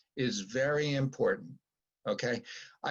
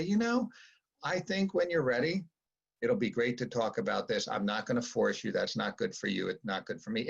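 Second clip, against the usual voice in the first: calm reassuring parent; 3 semitones lower than usual. Shown as a demonstration. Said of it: "You just wanna say".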